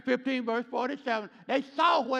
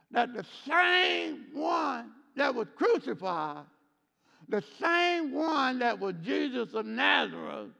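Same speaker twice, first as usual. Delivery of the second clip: preaching build; 2 semitones higher than usual. Real, not acted. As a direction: build the proclamation. Preaching crescendo.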